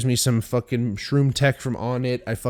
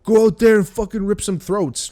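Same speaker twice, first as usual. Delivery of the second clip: hype coach; 8 semitones higher than usual. Retold or imitated. Random guy pumping up the team before the game, hyped yelling. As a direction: yell at the team like a fired-up coach. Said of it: "random guy come in and be like".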